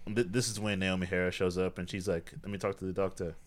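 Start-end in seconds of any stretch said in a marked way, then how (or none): 2.4-3.3 put-on lightly done British accent; a touch of British accent, casually acted. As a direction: slip into a British accent for the quote. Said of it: "Except she doesn't have an accent".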